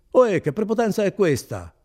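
loud, high-pitched protest; indignant cry. A narrator's reading. Renzo pulling his arm from the officer, crying out. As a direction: cry out against being manhandled. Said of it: "gridò Renzo ritirando il braccio".

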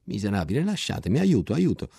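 sempre più acuto e disperato, fino al grido; grida di aiuto. Acted. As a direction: chiama aiuto mentre lo picchiano. Soldato picchiato grida aiuto. (soldato picchiato che implora aiuto, voce sempre più acuta)

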